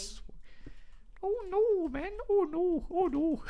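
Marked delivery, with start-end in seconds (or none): 1.2-3.4 very high, silly Canadian voice; Canadian accent attempt. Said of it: "have to try a Canadian accent".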